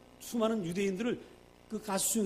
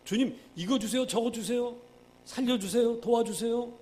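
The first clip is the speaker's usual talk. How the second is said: mock pleading prayer, a little higher; hammed-up asking prayer; begging prayer; 5 semitones higher, 4 dB louder than usual. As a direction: imitate someone begging God for things. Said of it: "달라고 하는 거예요".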